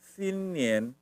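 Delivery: "Sin nian" with nian ending in n; Mandarin version. Shown as a demonstration. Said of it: "kalau bahasa Mandarinnya apa?".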